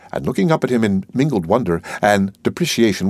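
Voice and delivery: ordinary delivery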